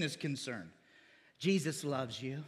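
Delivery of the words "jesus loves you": lower, slower and softer, coaxing like a gentle pastor; soft slow preacher coaxing. Retold or imitated. Preacher coaxing a new believer, slow and soft. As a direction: lull them with a sweet pitch. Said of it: "people want to trust what the pastor says".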